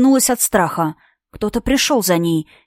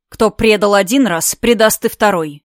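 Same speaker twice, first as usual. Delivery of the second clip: curt and dry. Acted. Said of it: "сухо отрезал Маргин".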